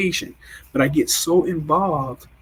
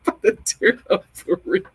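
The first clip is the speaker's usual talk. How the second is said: high, squeezed almost-crying voice; mock tearing up; 5 semitones higher than usual. Showing viewers how women tear up, high mock-tearful voice. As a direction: imitate women fighting back tears, pitched up. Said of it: "women be doing like this".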